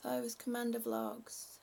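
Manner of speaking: quiet puzzled repeat to herself; muttered to self. Real, not acted. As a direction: mull it over under your breath.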